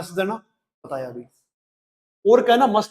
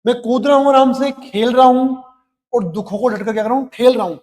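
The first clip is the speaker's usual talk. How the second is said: upbeat boast; 4 semitones higher, 7 dB louder than usual. Acted. Son's upbeat message voiced.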